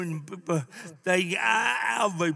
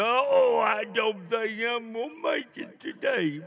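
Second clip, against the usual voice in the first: mock woeful complaining; 3 semitones higher than usual. Preacher imitates church member answering a greeting, mock woe. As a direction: open on a big "oh", then sag.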